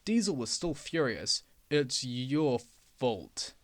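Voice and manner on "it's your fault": lower, slow sulky complaint; complaining. Acted. Furious Diesel blaming Duck, slow sulky complaint. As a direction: complain sulkily. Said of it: "he complained".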